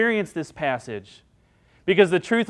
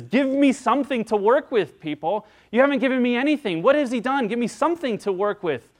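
pressing the crowd; 6 semitones higher than usual. Retold or imitated. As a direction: demand something to work with, exasperated. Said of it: "Pilate even presses the crowd".

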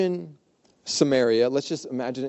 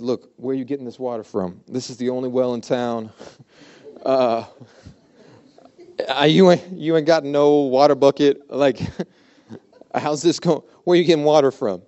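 loud, incredulous woman with no bucket; mock exasperation at a puzzling stranger; literal-minded woman; 7 dB louder than usual. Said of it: "This lady also thinks very literal".

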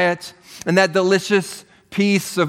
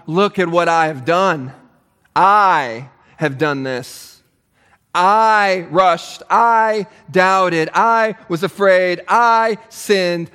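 humble confession; slower than usual. Acted. Model confession, voiced.

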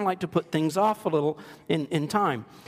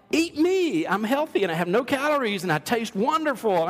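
talking snack voice; 4 semitones higher than usual. Retold or imitated. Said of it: "jump out like".

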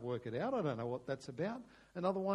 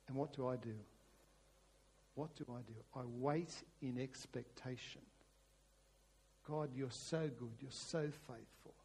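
hushed, lower prayer, gently building; intimate prayer; 3 semitones lower than usual. Acted. Preacher voicing David's prayer to God, intimate and trusting.

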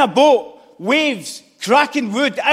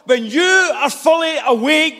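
shouted preaching. Acted. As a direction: call it out to the congregation. Repeated line, shouted first.

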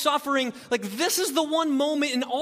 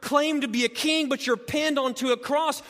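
mocking jeer. Preacher retelling the crowd jeering at Jesus, scornful. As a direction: sneer at him like the crowd. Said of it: "wagging their heads and saying".

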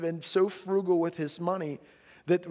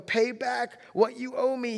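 high, loud, slow demand; stern creditor's demand; 8 semitones higher, 4 dB louder than usual. A narrator's reading. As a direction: squeeze the debt out of him. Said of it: "he demanded".

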